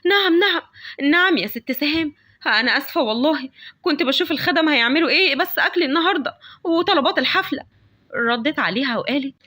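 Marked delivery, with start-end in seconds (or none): 0.0-7.6 higher, hurried nervous answer; mildly scared maid. Acted. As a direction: rush to answer the feared mistress. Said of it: "لأنها بتبقى خايفة منها". (ردّ خادمة خايفة ومتوترة بصوت أعلى)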